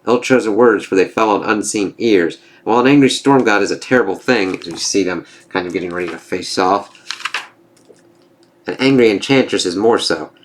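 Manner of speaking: reading comic captions aloud; dramatic comic-book narrator; story narration. Acted.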